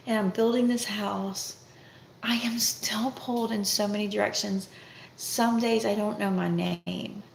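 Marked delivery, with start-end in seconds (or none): 2.2-4.7 hushed, drained whisper; whispered repeat. Real, not acted. Tired mom whispering how stretched she is. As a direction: let the repeat drop to a whisper.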